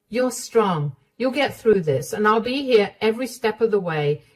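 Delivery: reassuring mother-in-law. Acted. Mother-in-law encouraging Emma she'll get through this, warm. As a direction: lift her up. Sarah comforts, promises.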